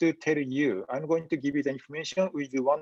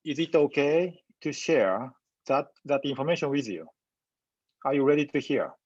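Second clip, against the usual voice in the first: gentle invitation. Shown as a demonstration. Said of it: "this is how I would respond".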